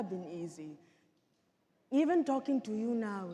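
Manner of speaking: measured, dramatic survivor testimony; genocide survivor. Acted. Survivor recounting childhood to an audience, grave storytelling. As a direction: tell it as a painful personal testimony.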